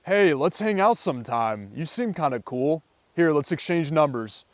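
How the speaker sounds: steady and sure, no hesitation; confident, assertive ask. Shown as a demonstration. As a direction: state it like it's already decided. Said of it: "the way that you wanna do this".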